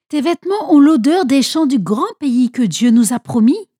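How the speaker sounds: voix plus haute et plus forte, émerveillée; exaltation paternelle. A narrator's reading. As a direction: laisse monter l'émerveillement du père. Père ému qui bénit son fils. (voix haute d'un père émerveillé)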